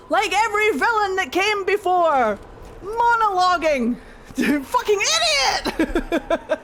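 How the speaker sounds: high, loud laughing jeers; mocking yell. Real, not acted. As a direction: shout and laugh at a dumb villain. Streamer mocks monologuing villain.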